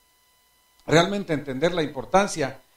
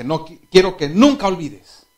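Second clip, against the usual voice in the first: reassuring father; 3 semitones higher, 9 dB louder than usual. Retold or imitated. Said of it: "Yo le dije".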